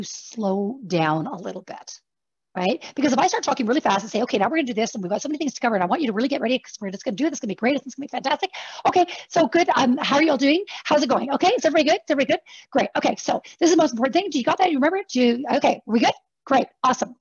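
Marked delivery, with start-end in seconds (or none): 3.0-4.0 talking fast. Shown as a demonstration. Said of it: "obviously I'm exaggerating". 4.2-17.2 fast, high, breathless rush of words; rushed nervous presenter. Shown as a demonstration. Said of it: "obviously I'm exaggerating".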